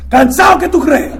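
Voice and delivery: laughing through the words; laughing reply. Retold or imitated. Answering his sponsor, laughing and worn out. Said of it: "Y yo estoy ahí".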